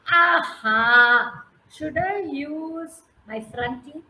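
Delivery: slow, drawn-out squirrel weighing it up; slow pondering squirrel. Acted. Squirrel pondering which teeth, slow and drawn out. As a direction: take your time, thinking it over. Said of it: "he waits and he says".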